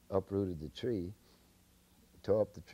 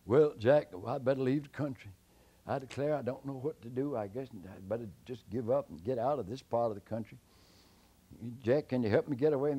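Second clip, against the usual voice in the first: raised, louder fretting voice; worried giant; 5 semitones higher, 5 dB louder than usual. Acted. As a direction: fret like a beaten giant. Worried giant asks help.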